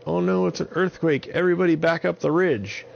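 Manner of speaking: high, urgent warning; alarmed. Acted. Avon warning everyone of the earthquake, high and urgent. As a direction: shout a warning about the earthquake. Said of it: "And Avon said".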